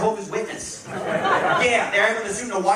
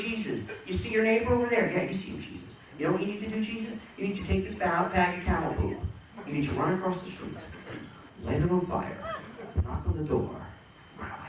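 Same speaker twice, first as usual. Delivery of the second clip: sly tempter; 7 dB quieter than usual. Acted. Judas tempting Jesus.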